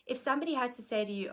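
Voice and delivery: lightly put-on American accent, quick. Quoting Caroline Myss to the audience in a mild American accent. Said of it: "in her American accent".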